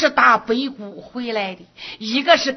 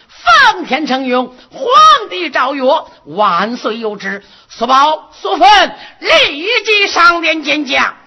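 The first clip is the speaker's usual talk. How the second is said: drawn out royal decree; 3 semitones higher, 4 dB louder than usual. Acted. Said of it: "宣读圣旨".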